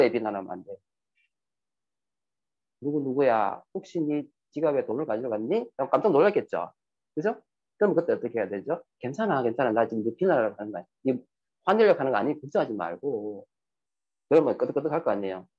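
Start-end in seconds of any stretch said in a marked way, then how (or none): 2.8-5.7 calm questioning. Shown as a demonstration. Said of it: "정말 차분한 마음으로". 9.0-13.5 reassuring. Shown as a demonstration. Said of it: "정말 차분한 마음으로".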